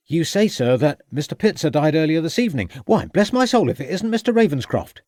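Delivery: a pleased surprise at meeting a friend; hearty constable. A narrator's reading. Constable recognizes an old acquaintance.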